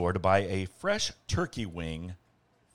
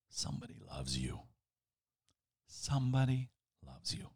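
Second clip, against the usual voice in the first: much softer, lower, a breathy murmur; whispering cloth; 7 semitones lower, 10 dB quieter than usual. A narrator's reading. Narrator voicing the dust cloth's soft whisper. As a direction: let it drift like a secret whisper. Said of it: "the dust cloth seemed to whisper".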